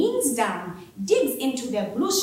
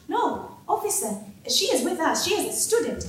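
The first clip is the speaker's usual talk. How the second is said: politely pleading; 4 semitones higher than usual. Acted. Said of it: "voices carefully modulated to sound polite".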